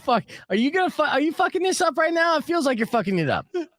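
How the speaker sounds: mock panic. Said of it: "because I'm like".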